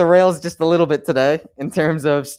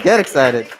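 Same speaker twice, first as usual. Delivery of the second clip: amused follow-up to the crowd; laughing; 3 dB louder than usual. Real, not acted. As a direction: repeat it while breaking into a laugh. Host hyping up next speaker.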